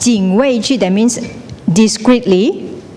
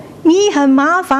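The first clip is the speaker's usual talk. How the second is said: echo; 7 semitones higher than usual. Acted. The cliff sends the complaint back, rippling echo. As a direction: let the final syllable ripple away. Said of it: "He will".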